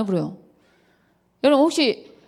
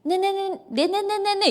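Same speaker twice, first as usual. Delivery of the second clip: higher sarcastic yes-yes with a laugh; mock agreement to dodge the fight; 8 semitones higher than usual. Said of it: "이래".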